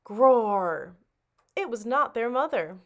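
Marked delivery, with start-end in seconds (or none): 0.0-1.0 loud roaring growl; fierce loud tiger roar. Acted. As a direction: roar as you burst through the door.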